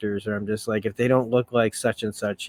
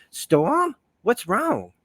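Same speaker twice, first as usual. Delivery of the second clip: high-pitched bad character impersonation; 9 semitones higher, much slower than usual. Rogue answering Storm's call, high put-on voice. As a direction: pitch it up, questioning. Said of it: "a bad impersonation".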